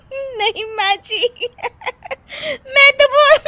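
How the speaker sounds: high, laughing stammer. Acted. Daughter-in-law failing to explain, laughing. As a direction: try to talk through laughter.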